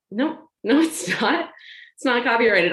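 high, laughing protest that it's not copyrighted; exasperated protest. Retold or imitated. Retelling her protest to the print shop, high and laughing.

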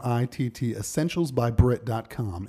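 measured podcast ad read; deliberate announcer-style plug; sponsor read. Acted. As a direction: slowly announce the episode's sponsor.

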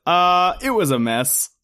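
slow, drawn-out "it was a mess"; Naomi impression. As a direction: drag it out like a deflated girl. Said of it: "I'm gonna say this exactly the way she said it".

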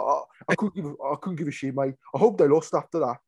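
put-on slipping into a Manc accent; retold caller with a touch of Manchester; lightly put-on Manc twang. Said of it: "gone and turned into a Manc".

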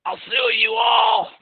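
high, slow mock yell; hammed-up threat to sue everyone; mock shout. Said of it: "She's like".

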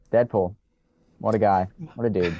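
ordinary talk

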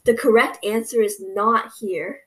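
slow, deliberate mock scolding; a hint of an irritated teacher correcting the class; mock mad teacher. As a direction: spell it out like an annoyed teacher. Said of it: "she got super mad".

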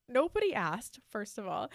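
retold indignant retort. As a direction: shut down his unwanted concern. Acts out retort to brother-in-law.

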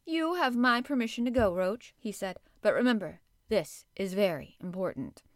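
put-on boy king grandly dismissing the gardener; lordly dismissal. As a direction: dismiss him like a little king.

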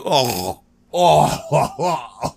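hammed-up wailing sob; mock crying. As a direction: moan as if your feelings are hurt. Mock grief over a disappointing film.

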